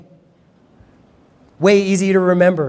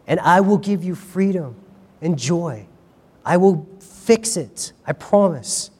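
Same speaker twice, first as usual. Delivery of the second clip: tender pleading. Acted. Jesus voiced tenderly.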